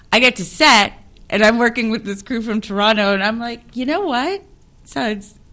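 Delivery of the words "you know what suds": high, loud, laughing outburst; laughing exclaim. Retold or imitated. Telling the director his Toronto crew has accents, laughing loudly. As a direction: burst out laughing as you tell him.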